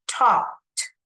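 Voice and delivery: Talked as one syllable ending in a light t; light final t. Shown as a demonstration. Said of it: "Just emphasize it a little bit".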